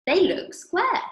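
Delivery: put-on high, slow, petulant girl voice; Veruca's voice. A spoilt girl arguing with Mister Wonka, high and slow. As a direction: pitch up into a spoilt child.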